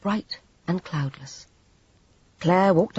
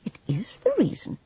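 whispering; 7 semitones higher than usual. A narrator's reading. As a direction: insist it under your breath. Firm reply.

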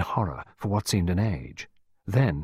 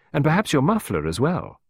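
advising; 6 semitones higher, 3 dB louder than usual. A narrator's reading. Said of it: "final word of advice".

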